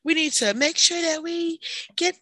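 earnest idealist pleading for repairs; lightly mocked eager idealist; earnest young worker. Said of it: "Me was like".

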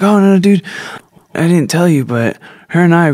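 backpedalling fast, brushing it off; imitating Bo. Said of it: "And he's like".

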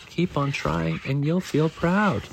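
high, slow, lilting encouragement; encouraging motto. A narrator's reading. Dad cheers Daniel up the hill, slow high motto. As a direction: stretch it into a gentle sing-song. Dad's motto repeated, drawn out.

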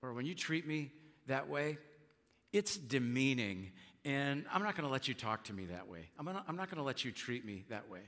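calmly telling someone off. Shown as a demonstration. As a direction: say it calmly, no yelling. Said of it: "You can just calmly say".

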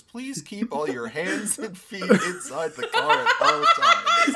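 high, loud mock recorded announcement; automated ride announcer voice. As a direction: do the theme park safety recording. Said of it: "that automated voice thing that goes".

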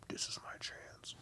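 very soft, breath-only whisper; hushed, retold inner thought; conspiratorial whisper. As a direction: whisper it to yourself like a secret opportunity. Retold secret thought before signing up.

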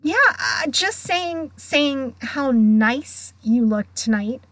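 awkward cover-up. Acted. Girl covering up to the ghost, awkwardly. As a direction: stumble into a hasty compliment.

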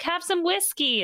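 high mock-innocent hostess; sweet hostess. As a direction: play the too-sweet widow offering drinks. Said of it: "she's like".

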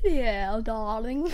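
put-on posh English drawl; posh English accent. Shown as a demonstration. Child asked for posh English accent, putting it on. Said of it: "Do your posh English accent".

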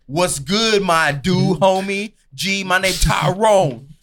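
hammed-up homie greeting; stereotyped impression. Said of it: "he was like".

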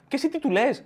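usual speaking voice

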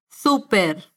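Súper with the weight on SU, said slowly for repeating; stress on the U. Shown as a demonstration. Teacher modelling Súper for listeners to repeat, slow and clear. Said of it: "con acento en la U".

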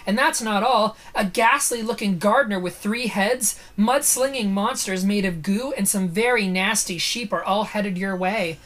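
lively spooky-book reading; dramatic story narration. A narrator's reading. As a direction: build up each monster for the listener. Reads the book aloud.

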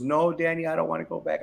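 retold crying plea. Wife begging husband not to move back, mildly imitated crying. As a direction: imitate a wife's tearful pleading, lightly. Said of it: "my wife cries".

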